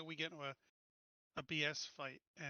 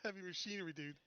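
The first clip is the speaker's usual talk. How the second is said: laughing; 4 semitones higher, 4 dB louder than usual. Real, not acted. Teasing a fellow player.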